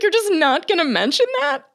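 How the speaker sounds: high-pitched disbelieving question, amused; high mock-incredulous voice. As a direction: imitate everyone's baffled reaction up high. Acting out everyone's baffled reaction.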